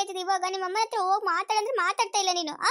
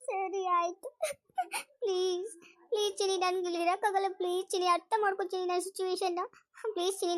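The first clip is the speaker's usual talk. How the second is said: softer, teary begging; tearful pleading; 4 dB quieter than usual. Acted. Wife begging her husband to move to Bangalore, softly tearful. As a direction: plead through mild acted tears. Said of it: "ಇವಾಗ ಕಣ್ಣೀರು ಒರೆಸ್ಕೊ".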